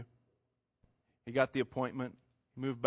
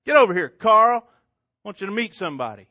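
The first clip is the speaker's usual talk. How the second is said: much louder summons, higher; calling out; 7 semitones higher, 10 dB louder than usual. Acted. Girlfriend summoning Carl across the lot, loud call. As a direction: shout him over.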